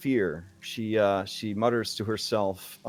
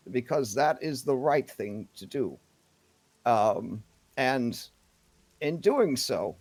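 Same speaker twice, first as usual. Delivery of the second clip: decisive town leader; 4 semitones higher than usual. Acted. Town leader pronounces on the pirate.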